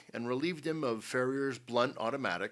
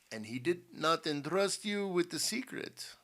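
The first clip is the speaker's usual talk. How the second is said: higher, insistent questioning; demanding; 6 semitones higher than usual. A narrator's reading. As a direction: press for an answer. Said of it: "demanded the general".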